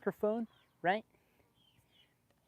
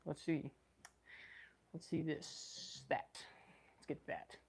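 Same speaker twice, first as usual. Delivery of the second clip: much softer, almost under breath; quiet; 11 dB quieter, slower than usual. Real, not acted. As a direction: keep it hushed so the neighbors don't hear. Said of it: "I don't know why I'm trying to be quiet".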